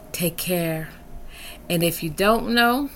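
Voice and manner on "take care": soft whispered take care; whispering. Real, not acted. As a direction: whisper it close. Whispered goodbye.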